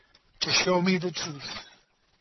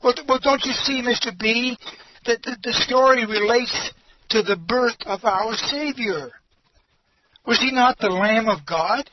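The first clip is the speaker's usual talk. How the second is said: earnest; 3 semitones higher than usual. Retold or imitated. Teacher passionately explains to pastor.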